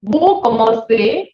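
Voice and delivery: "Vous commencez" said slowly, ending in é; slow model pronunciation. Shown as a demonstration. Teacher drilling French for class. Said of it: "Now you will repeat with me".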